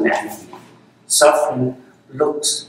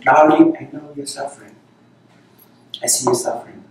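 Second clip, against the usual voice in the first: tender reassurance. Acted. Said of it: "No, say this".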